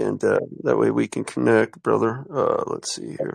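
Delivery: choked up and near tears; holding back tears, voice fading; quiet weeping. Real, not acted. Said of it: "I'm, uh, just emotional".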